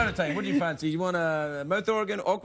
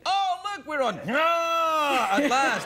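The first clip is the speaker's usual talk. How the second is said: alien visitor; 10 semitones higher, much slower than usual. Pretend. Aliens arriving, comic voice.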